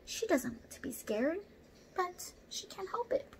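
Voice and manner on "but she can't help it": soft whisper. A narrator's reading. Orangutan admits being scared.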